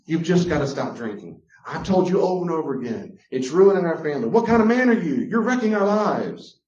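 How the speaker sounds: nagging tirade. Retold or imitated. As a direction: berate the drinking husband. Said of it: "Before boundaries".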